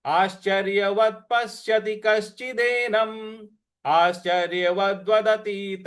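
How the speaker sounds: slow, steady Sanskrit chanting; verse recitation. Acted. Teacher leading class in reciting the Gita. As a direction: intone the shloka evenly.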